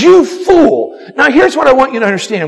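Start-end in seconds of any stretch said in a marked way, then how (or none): 0.0-1.0 stern God. Retold or imitated. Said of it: "God says".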